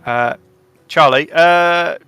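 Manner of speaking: panting after running in; breathless, gasping between words; out of breath. Acted. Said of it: "all out of breath".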